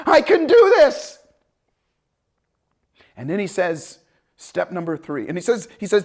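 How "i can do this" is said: laughing confidence. Retold or imitated. Excited self-talk, laughing.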